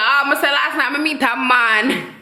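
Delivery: imitation of a Caymanian accent; put-on Caymanian accent. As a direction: tease in a mock Caymanian lilt. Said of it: "that man accent".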